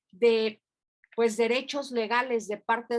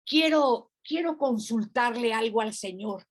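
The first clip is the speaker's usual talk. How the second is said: upset demand. Retold or imitated. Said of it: "muy molesta".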